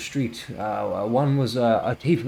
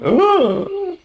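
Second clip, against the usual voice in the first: shocked cry; 9 dB louder than usual. Acted. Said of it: "And then Osnek goes".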